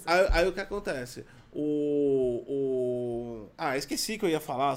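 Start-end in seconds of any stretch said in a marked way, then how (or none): 1.5-3.5 stalled after an interruption; cut off mid word. Real, not acted. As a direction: trail off, losing the thought. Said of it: "você me cortou".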